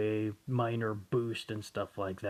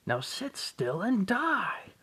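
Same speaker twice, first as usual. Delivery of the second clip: cold command; 9 semitones higher, slower than usual. Acted. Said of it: "villain attacking".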